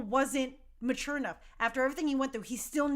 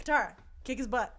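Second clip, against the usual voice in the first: louder and louder cheering; 5 dB louder than usual. Retold or imitated. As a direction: egg her on. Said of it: "And I was like".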